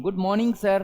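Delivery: Good मॉर्निंग sir with no r in मॉर्निंग, mɔnɪ̃ŋɡ; silent r. Shown as a demonstration. Teacher models fluent spoken English: silent r in मॉर्निंग. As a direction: drop the r in मॉर्निंग, say it mawning. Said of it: "गुड मॉर्निंग नहीं".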